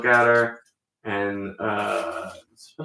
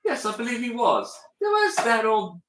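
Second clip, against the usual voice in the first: put-on mid-Atlantic accent; 9 semitones higher than usual. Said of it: "mid-Atlantic accent".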